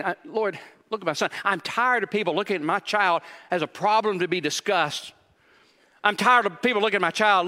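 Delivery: a father worn out and begging; anguished father. Acted. Preacher voicing a desperate father to Jesus, anguished plea. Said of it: "you can hear the pain in his voice".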